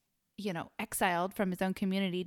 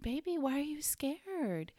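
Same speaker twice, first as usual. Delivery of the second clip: gentle whisper; 7 semitones higher, slower than usual. Retold or imitated. Mother whispering to her frightened daughter in the dark hallway. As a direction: whisper it to calm a scared child.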